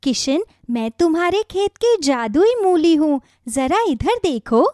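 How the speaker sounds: a gentle talking radish giving advice; magic radish. Acted. Magic radish gently advising worried farmer Kishan, kindly.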